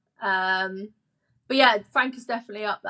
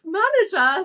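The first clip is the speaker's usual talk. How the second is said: high, pretend-mortified squeal of realisation; mock horrified excitement; 10 semitones higher than usual. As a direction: replay the moment she realised she had cried on the manager, pitched up. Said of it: "And then I was just like".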